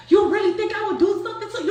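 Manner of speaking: high, loud mock melodrama; hammed-up movie drama. Crystal holding Noonie's face, hammed-up movie plea. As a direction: play it like a soap opera plea. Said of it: "whole dramatic movie shit".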